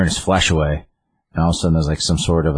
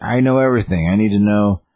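imitating old man; 4 semitones higher than usual. Old Gramps voiced in recap.

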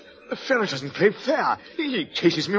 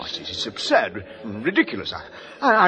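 breathless, halting words after a hard set; out of breath. Acted. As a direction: gasp it out, out of breath. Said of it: "I'm quite out of breath".

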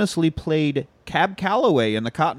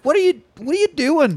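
baffled; 11 semitones higher than usual. Retold or imitated. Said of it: "I was like".

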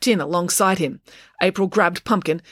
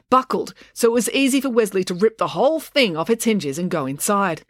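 ordinary delivery, nothing marked

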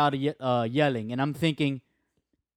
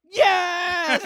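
a far higher, louder cheer of joy; happy yes; 7 dB louder than usual. Retold or imitated. Reliving his joy at the win, a high loud cheer. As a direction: let it burst out in delight. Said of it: "I was like".

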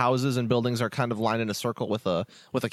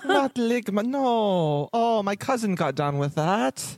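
high, bubbly elf voice; cheery high-pitched elf innkeeper welcome; jolly elf Festo; 5 semitones higher than usual. Acted. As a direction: greet them like the jolliest elf alive.

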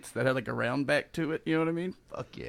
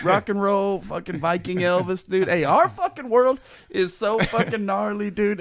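put-on extreme hyped kids ad; 5 semitones higher, 3 dB louder than usual. Hyped Viking Elvis pitch.

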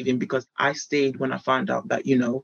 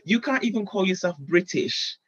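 higher, haughty put-down, peaking into a squeal; snobbish retort; 5 semitones higher than usual. Retold or imitated. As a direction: sneer at him from above. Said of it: "That's going to sound very snobbish".

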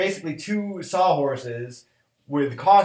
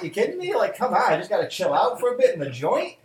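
higher, laughing mock-cheerful musing; joking bravado; 5 semitones higher than usual. Joking to the friend that prison would be fine, laughing. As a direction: pretend prison sounds like a vacation.

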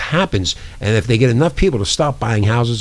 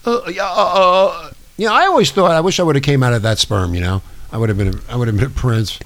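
mock Prince Andrew; 6 semitones higher than usual. Host mocks Prince Andrew as a caller in a high voice. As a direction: play a dopey prince calling in.

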